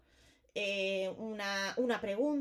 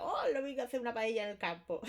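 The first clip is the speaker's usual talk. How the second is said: cheerful exclamation. Shown as a demonstration. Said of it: "con signos de exclamación y con alegría".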